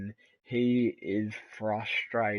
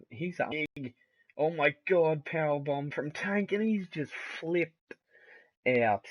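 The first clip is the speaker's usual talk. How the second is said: excited shout; 5 semitones higher, 4 dB louder than usual. Real, not acted. Big move surprises commentator.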